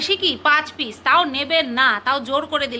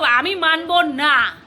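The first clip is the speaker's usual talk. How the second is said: put-on stubborn child; 4 semitones higher, slower than usual. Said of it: "এরকম করে".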